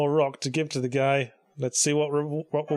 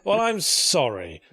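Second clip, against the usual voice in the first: sarcastic apology; 2 semitones higher, slower than usual. Acted. Sarcastic apology to impatient fans.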